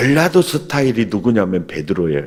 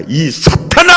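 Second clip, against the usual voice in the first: a louder, higher rebuke for the crowd to repeat; mock rebuke; 5 semitones higher, 4 dB louder than usual. Shown as a demonstration. Preacher leading the congregation in Jesus's rebuke, a mock rebuke. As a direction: call it out for them to echo. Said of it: "따라서 합다".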